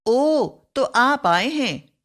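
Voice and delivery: mild mock surprise at an arrival; surprised. Shown as a demonstration. Teacher acting out a guest's arrival, mildly surprised. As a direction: voice a light surprise. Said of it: "विस्मय या आश्चर्य सूचक".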